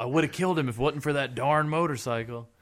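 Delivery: a hint of foiled cartoon schemer; Ocelot. Foiled villain grumbling about the motorcycle, lightly cartoonish. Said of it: "Ocelot gets in some Wile E. Coyote shenanigans".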